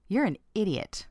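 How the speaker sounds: matter-of-fact insult; somewhat neutral tone. Acted. Coworker to colleague who forgot keys, fairly neutral. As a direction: say the put-down evenly, without force. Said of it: "said that in a somewhat neutral tone".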